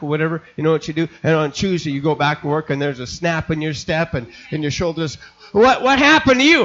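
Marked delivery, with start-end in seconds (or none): 5.5-6.6 amazed coworker. Acted. Coworker amazed at changed man.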